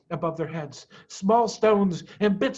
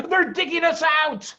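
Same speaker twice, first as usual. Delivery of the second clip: loud, much higher urgent cry; alarmed shout; 11 semitones higher, 6 dB louder than usual. A narrator's reading. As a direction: warn them of danger. Mr Fox alarms family.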